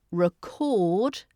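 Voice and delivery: record stressed on CORD, as ri-CORD; second-syllable stress. Shown as a demonstration. Teacher demonstrating the verb, record stressed on CORD. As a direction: reduce the start of record, lengthen the second syllable. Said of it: "the stress is on the second syllable".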